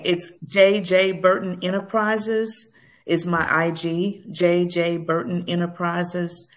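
slow and carefully spelled out; over enunciating. Shown as a demonstration. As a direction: spell each letter out slowly. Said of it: "Say that one more time slowly".

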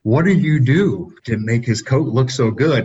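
lightly imitated Spanish judge's accent; Spanish-accented question, swooping up and down; heavy Spanish accent. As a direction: put on a Spanish accent with lilting pitch. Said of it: "In his very heavy Spanish accent".

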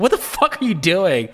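mock appalled aunt; imitating aunt's reaction. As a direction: play the shocked aunt, voice jumping up. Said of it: "She'd be like".

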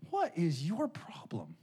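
slow hushed whisper; a gentle, slow inner voice asking; God speaking. Retold or imitated. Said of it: "the Lord just said to me".

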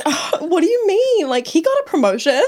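high, giggly disbelief easing down; incredulous, laughing retort; amused mock protest. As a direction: replay the protest while giggling. Replays own protest, laughing.

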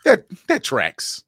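laughing. Real, not acted. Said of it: "laughing at the joke".

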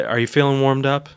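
loud upbeat check-in; hype check-in. Real, not acted. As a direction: pump him up. Hyping co-host.

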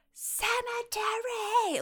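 high, slow shout of Cemetery; hammed-up high yell of the word. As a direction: yell it out like a kid spotting something. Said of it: "like, super loud".

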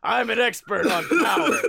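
loud, boastful handyman; Tim the Tool Man Taylor. Acted. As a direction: boast like a hammed-up TV tool expert.

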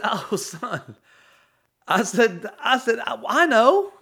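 retold fatherly reassurance, pitched high; tender father. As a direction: imitate a dad moved by his child's confession. Father retelling comforting his confessing son.

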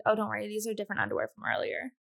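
soft retold whisper; quoted whisper. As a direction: drop the voice for the quote. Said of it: "she was, like, whispering to him".

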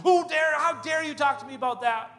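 loud high indignant retort; indignant bark. Retold or imitated. A friend rebuffs talk of faith, indignant loud bark. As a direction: snap back offended. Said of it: "they barked right back at you".

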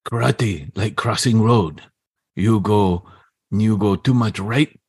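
halting broken-English sensei, lightly voiced; Mister Miyagi. Miyagi teaching Daniel, half-remembered quote, lightly imitated sensei voice. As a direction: lightly put on an old film sensei's speech. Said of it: "scene from Karate Kid where Mister Miyagi".

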